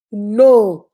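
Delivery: firm loud refusal in practice. Shown as a demonstration. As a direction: plant your feet and refuse. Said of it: "practice it with me".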